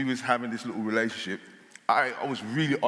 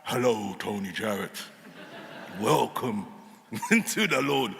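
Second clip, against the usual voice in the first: mock voice of God; slower than usual. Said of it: "waiting for this cloud to open up".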